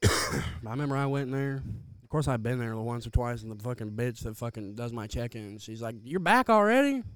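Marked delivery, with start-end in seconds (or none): 6.0-7.0 high, loud incredulous question; exaggerated rising disbelief; mock surprise. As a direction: imitate a jail clerk amazed to see a regular. Check-in woman's surprise, acted out.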